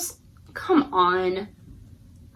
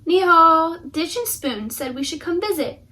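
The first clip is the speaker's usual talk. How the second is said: cheerful guest voice, a bit higher; bright knock-at-the-door greeting; visitor greeting; 4 semitones higher, 3 dB louder than usual. Acted.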